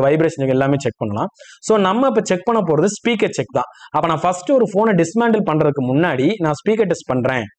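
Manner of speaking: ordinary talk, nothing marked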